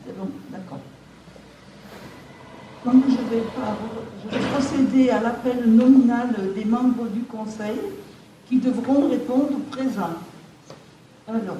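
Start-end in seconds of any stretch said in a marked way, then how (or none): 2.8-10.1 speaking up louder through the mask. Real, not acted. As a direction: project louder so the room hears. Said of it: "je vais parler un petit peu plus fort".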